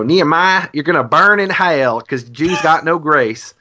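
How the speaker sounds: mock Southern lady accent, slowed a touch. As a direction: lightly imitate a Southern lady scolding. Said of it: "that's my Southern accent".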